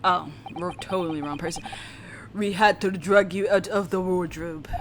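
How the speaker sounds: put-on rough, amateur Russian accent for a game character; attempted Russian accent. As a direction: try a Russian sailor's accent. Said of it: "my Russian accent is totally going to be a bust".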